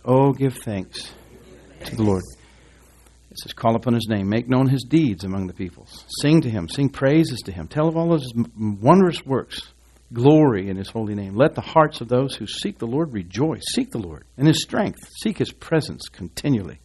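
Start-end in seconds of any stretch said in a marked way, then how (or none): 0.0-2.2 drawn-out call for the congregation to echo; slow, measured scripture call-out; leading congregational response. Real, not acted. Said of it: "Everybody said". 3.5-16.8 emphatic, rhythmic psalm reading; scripture reading aloud. Real, not acted. Reads the psalm aloud to congregation.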